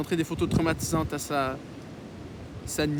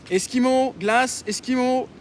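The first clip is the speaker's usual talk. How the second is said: higher, louder drawn-out hawker's call; vendor's cry; 7 semitones higher, 6 dB louder, slower than usual. A narrator's reading. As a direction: call out your wares like an ice-cream seller. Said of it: "en agitant une clochette et criant".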